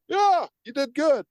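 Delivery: high, slow mock congratulation; squeaky-high praise from a language app; cheering app. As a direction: cheer a learner on, high and drawn out. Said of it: "Duolingo's like going".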